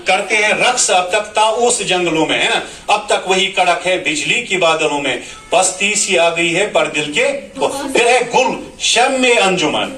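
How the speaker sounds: sing-song tarannum recitation of the verse; melodic poem recital. Shown as a demonstration. Teacher recites the nazm to show pronunciation in tarannum. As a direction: chant the lines like a mushaira reading.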